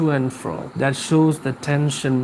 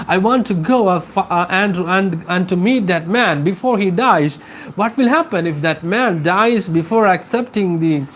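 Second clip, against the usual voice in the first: a lightly raised, hurried plea of a guilt-stricken priest; anxious priest's lament; 3 semitones higher than usual. Acted. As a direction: voice the priest fretting that he failed his duty. Teacher voices the panicked priest.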